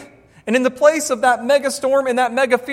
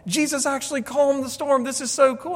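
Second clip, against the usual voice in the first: imitating excited child; 5 semitones higher than usual. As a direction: mimic a thrilled little boy. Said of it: "He was like".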